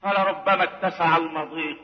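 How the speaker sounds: quiet murmured echo of the line; hushed low repeat. Shown as a demonstration. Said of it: "verse repeated in hushed voice".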